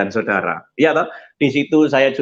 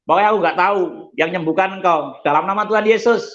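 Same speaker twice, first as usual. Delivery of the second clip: retold healing prayer; 6 semitones higher than usual. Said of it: "Saya ngomong gitu".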